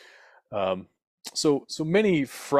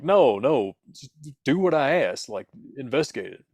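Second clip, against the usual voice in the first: firm, pitched-up insistence; insistent; 4 semitones higher, 3 dB louder than usual. Acted. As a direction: push back, clearly frustrated. Insisting frustrated caller.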